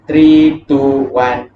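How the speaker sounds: calling out three loudly; loud count. Shown as a demonstration. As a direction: call the count loud and strong. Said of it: "last set".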